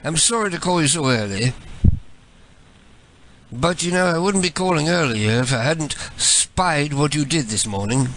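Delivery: lightly put-on British voice; mock British accent. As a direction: play a polite British caller. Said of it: "switch to my British voice".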